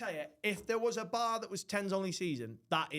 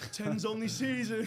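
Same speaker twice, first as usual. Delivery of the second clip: slow, high, put-on delivery through laughter; higher pitch, cracking up; laughing catchphrase; 5 semitones higher, 4 dB louder than usual. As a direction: drag out the phrase in a hammed-up mock voice. Retells himself lost, repeating the phrase.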